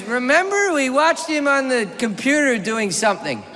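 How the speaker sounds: hint of a medicated woman, starting high; heavily sedated woman. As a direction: lightly imitate a wife on tranquilizers. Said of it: "Mariah's on, like, seven Xanax".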